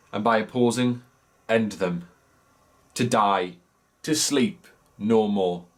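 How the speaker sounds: measured Hamlet recitation with pauses after phrases; monologue read-through. Acted. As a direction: read the soliloquy deliberately, phrase by phrase. Reads monologue aloud.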